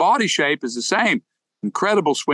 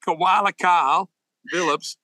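put-on Aussie accent; 4 semitones higher, slower than usual. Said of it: "going all in on my Aussie accent".

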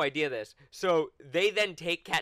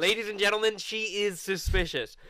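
mock announcer; 3 semitones higher than usual.

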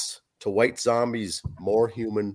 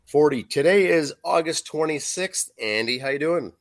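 slightly hoarse, rough-edged voice; talking through a hoarse throat. Real, not acted. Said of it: "I got a little bit of a hoarse voice here".

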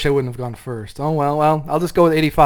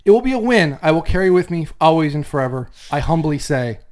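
grand, louder, mock-solemn thank-you speech; mock acceptance speech; 4 dB louder than usual. Co-host delivers an overblown award speech to Jeff, mock-solemn. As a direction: hams up a heartfelt win speech to his co-host. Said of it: "That was just moving".

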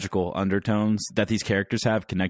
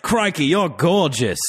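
hammed-up Australian, higher and drawn out; terrible Australian accent; 8 semitones higher, 4 dB louder, slower than usual. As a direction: do a bad Crocodile Hunter Australian accent. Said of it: "That was a terrible accent".

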